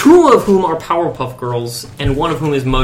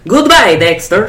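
cartoon voice; 6 semitones higher, 5 dB louder, slower than usual. Quoting cartoon line.

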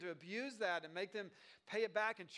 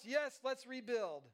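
higher, drawn-out rallying reply; eager agreement; 5 semitones higher, 4 dB louder, slower than usual. Acted. People replying at once to Nehemiah's call, eagerly. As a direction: say it slowly with rallying conviction.

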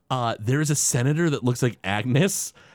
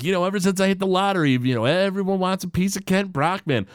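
Kent Brockman; 7 semitones higher, faster than usual. Retold or imitated. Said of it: "And Kent Brockman's like".

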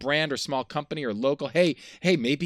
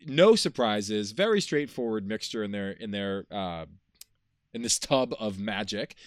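toned-down ad read; 4 semitones lower, 4 dB quieter than usual. Acted. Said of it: "I'm not reading the script".

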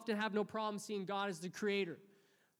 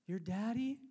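Joshua; 3 semitones higher, 4 dB louder than usual. Retold or imitated. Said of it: "And it was Joshua".

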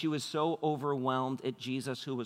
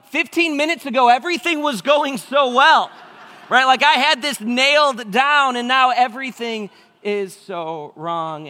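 much higher and louder, slow despairing wail; exasperated dad; 11 semitones higher, 12 dB louder than usual. Retold or imitated. Dad lamenting his ruined morning to himself, high slow despair. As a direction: wail it like everything collapsed. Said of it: "I was like".

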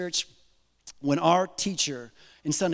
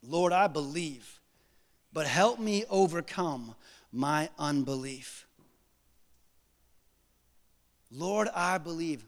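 quiet earnest prayer; 3 semitones lower, 6 dB quieter than usual. Shown as a demonstration.

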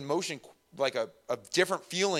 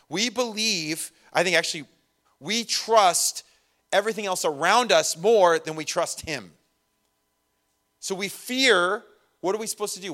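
rising, louder preaching push; building emphasis; 4 semitones higher, 4 dB louder than usual. Acted. Pastor presses the congregation, rising emphatic preaching. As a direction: drive the point home higher.

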